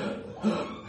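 voiceless mock retching gasp; imitated dry heave. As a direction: fake a dry heave with breath alone. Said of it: "Just dry heave".

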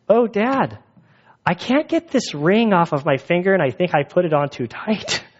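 put-on high, small child's plea; imitating a worried little girl; little daughter voice. Dad retelling his daughter asking for help, in a high child voice.

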